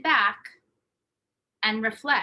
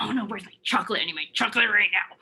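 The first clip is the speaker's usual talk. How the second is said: hushed, breathy whine for chocolate; mock chocolate craving; faster than usual. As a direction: play the desperate craving, half-joking. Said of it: "I'm like".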